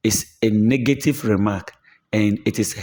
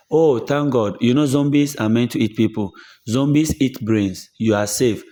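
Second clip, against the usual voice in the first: sarcastic reply. Retold or imitated. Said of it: "You are sarcastically insulting the person".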